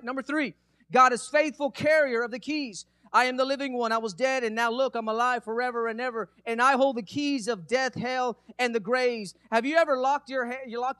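emphatic, loud scripture reading; preaching. Acted. Preacher announcing point three from Revelation, emphatic preaching. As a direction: proclaim the verse to the church.

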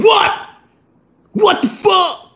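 high-pitched incredulous outburst; shocked disbelief. Retold or imitated. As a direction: act out stunned outrage, pitch leaping up. Acting out shocked reaction to explanation.

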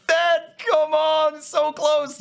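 high, loud bursts; worked-up gamer's cries; frustrated shouting. Real, not acted. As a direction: yell it urgently, willing the kill to land. Near kill after dragon frustration.

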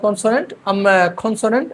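"কনসোনেন্ট" with a rounded o in the first syllable; British pronunciation. Shown as a demonstration. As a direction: say "কনসোনেন্ট" as kon-so-nent, British style. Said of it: "British pronunciation". ("কনসোনেন্ট" British উচ্চারণে)

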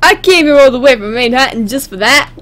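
badly faked New York accent. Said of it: "I can't do a New York accent".

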